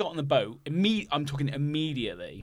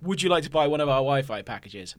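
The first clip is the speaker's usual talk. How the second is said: lightly voiced cruise salesperson; sales greeting. Crew selling Wi-Fi to new passengers, lightly imitated sales patter. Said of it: "someone tried to sell us".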